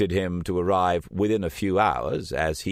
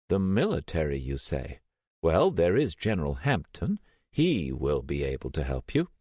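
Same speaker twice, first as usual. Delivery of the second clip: put-on a frail old lady, lost and vague; old Selena on the phone to Steiner, confused and frail; confused old woman. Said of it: "confused old Selena answers".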